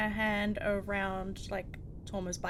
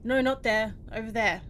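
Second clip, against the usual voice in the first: mock-bossy command, a bit louder; bossy ordering; 4 dB louder than usual. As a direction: order a prisoner about, lightly put on. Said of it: "look like I'm ordering".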